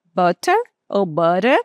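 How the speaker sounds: "better" first flapped "berer", then crisp T "betta"; two ways; flap then clear T. Shown as a demonstration. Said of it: "Como é que eu posso falar?".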